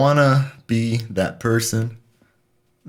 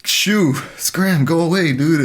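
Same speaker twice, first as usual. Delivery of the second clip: shooing someone away; 7 semitones higher, 3 dB louder, slower than usual. Retold or imitated. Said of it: "It's like".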